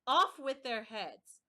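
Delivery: queen roaring an execution order; furious command. A narrator's reading. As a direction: roar the sentence as a raging queen. Raging queen.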